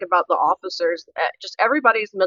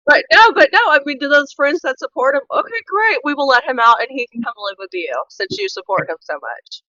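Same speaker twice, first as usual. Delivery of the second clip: mockingly generous, much higher; sarcastic; 6 semitones higher than usual. Real, not acted. Sarcastic offer to his supporters.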